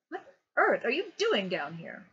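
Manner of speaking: father finding his son in the dark garden, surprised. A narrator's reading. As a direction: catch the boy off guard.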